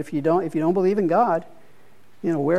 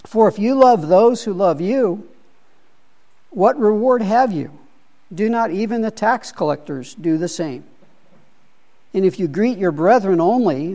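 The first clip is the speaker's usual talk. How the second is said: measured, slightly raised Bible reading; scripture reading; 2 semitones higher than usual. Acted. Leader reads Jesus' words to the study group, measured scripture reading. Reads verse forty-six aloud.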